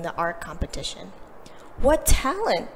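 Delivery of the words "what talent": bright, lifted exclamation; the teacher marvels aloud at the prize-winner; exclaiming teacher. A narrator's reading. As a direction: lift it up in delight. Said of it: "exclaimed the teacher".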